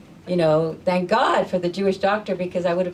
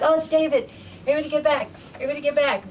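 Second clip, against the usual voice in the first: loud, higher warning call to the field; crowd calling out; 8 semitones higher, 3 dB louder, much faster than usual. Retold or imitated. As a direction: yell to everyone to back up. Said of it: "So everybody's like".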